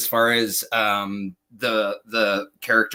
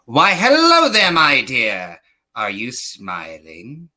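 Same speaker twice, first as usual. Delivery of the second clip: charmer voice. Retold or imitated. Answering his wife's call in a crooning voice. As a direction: croon it like a smooth flirt. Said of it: "when I answer the phone like that".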